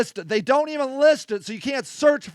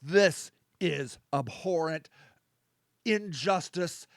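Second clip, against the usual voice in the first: slow, hushed, lower-pitched gravity; grave condemnation; 5 semitones lower, 11 dB quieter, slower than usual. Real, not acted. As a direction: drop to a soft, solemn verdict with long pauses. Grave closing condemnation of the video.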